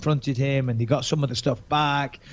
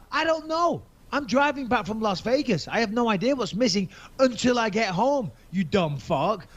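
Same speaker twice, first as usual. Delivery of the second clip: exasperated retort; 6 semitones higher than usual. Retold or imitated. Retold phone argument, exasperated.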